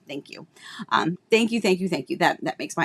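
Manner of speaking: thanking through tears, quietly; tearful thanks. Real, not acted. Host thanking viewer for comforting words, tearful. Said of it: "I didn't plan on crying".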